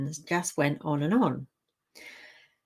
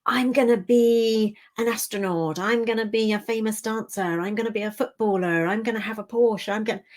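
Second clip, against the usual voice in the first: higher, eager, rushing dreams; loud childhood voice; 4 semitones higher than usual. Retold or imitated. Recalling the loud childhood voice, higher and eager. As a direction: blurt out big dreams like a kid. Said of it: "that was the loud voice".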